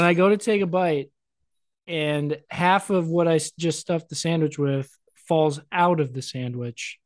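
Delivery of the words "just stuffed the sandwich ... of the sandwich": ordinary delivery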